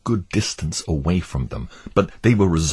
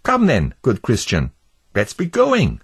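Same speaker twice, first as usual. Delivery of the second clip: higher, gentle hopeful voice; Pliable the wavering neighbour; 6 semitones higher than usual. Acted. Pliable defending Christian to Obstinate, hopeful. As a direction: defend the pilgrim warmly.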